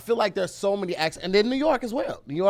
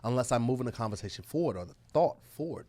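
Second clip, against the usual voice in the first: a hint of a History Channel narrator; speaking with purpose; 4 semitones lower, 5 dB quieter than usual. Host explains his put-on voice in a mock documentary tone. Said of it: "So that's how this voice".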